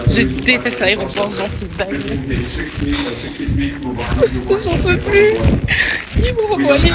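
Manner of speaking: out of breath from running; breathless, high and strained; while running. Real, not acted. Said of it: "je suis en train de courir".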